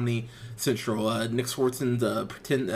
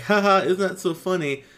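mock laugh, a bit higher; mock playing it off; 5 semitones higher, 4 dB louder than usual. Melissa laughing off an uncomfortable confrontation, mock amusement. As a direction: play it off with a token haha. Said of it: "Melissa plays it off like".

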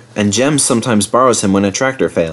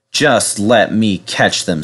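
grim; slower than usual. Acted. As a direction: say it grimly through the teeth. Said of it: "said the fireman grimly".

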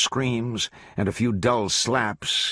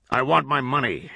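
higher, pressing demand; hard demand; 5 semitones higher than usual. A narrator's reading. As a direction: lean on him, no mercy. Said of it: "said Glanton".

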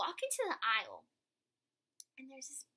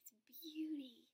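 soft closing; 3 semitones lower, 6 dB quieter than usual. Real, not acted.

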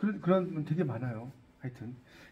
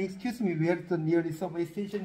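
slow English quote; 5 dB quieter, much slower than usual. Retold or imitated. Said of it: "라고 물은 적이 있다".

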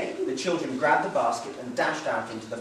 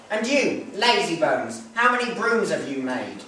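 scolding mother; 3 semitones higher, 5 dB louder than usual. Acted. Mother scolds her lazy children.

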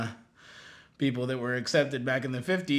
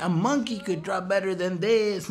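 scornful jibe; 6 semitones higher than usual. Retold or imitated. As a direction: imitate a brother sneering at the drawing. He's like.

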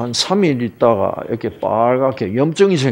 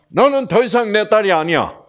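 raised, high-pitched retold outburst; acted parental rejection, pitched up; angry disowning; 7 semitones higher than usual. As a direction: act out an angry father cutting off his child. Angry father disowning daughter, acted.

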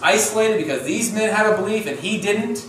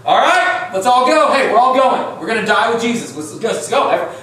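eager rallying cry; 3 semitones higher than usual. Retold or imitated. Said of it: "Tom's like".

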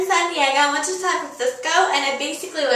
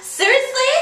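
shocked; 7 semitones higher than usual. Retold or imitated. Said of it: "And I was like".

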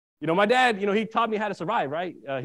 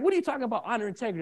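retold indignant challenge; 4 semitones higher, 3 dB quieter, much faster than usual. Son answers Dad's lecture on honor, retold indignant challenge. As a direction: throw the question back, pitched up.

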